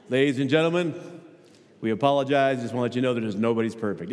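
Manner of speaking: lightly voiced airline pilot over the intercom; a hint of a cabin announcement, apologetic. Preacher imitates a pilot to the congregation, lightly voiced announcement. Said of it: "How about an airplane pilot?".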